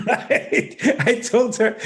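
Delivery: high-pitched, talking through real laughter; laughing. Real, not acted. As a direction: crack up while starting the sentence. Cracks up at own story.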